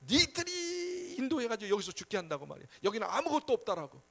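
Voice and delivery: acting out an angry, grumbling crowd; hot-tempered mock outburst. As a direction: drag out the first accusation like a fed-up mob. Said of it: "막 혈기 부리는 거예요".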